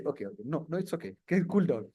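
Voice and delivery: low, soft soothing; gently calm a shaky candidate; hushed, placating; reassuring interviewer. Acted. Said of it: "somebody shakes my table. I say".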